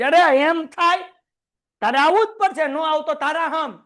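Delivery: loud, high, pushy insistence; insisting cousin. Acted. Cousin insisting the student come home, loud and pushy. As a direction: swear him into coming along. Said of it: "cousin insisting".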